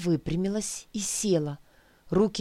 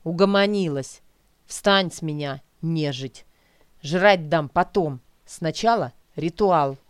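put-on bossy young man; 2 semitones lower, 4 dB louder than usual. Stranger orders the zombie girl.

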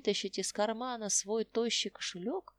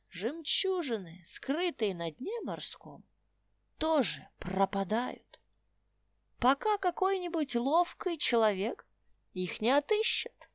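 put-on old prospector. Old tramp voice continues.

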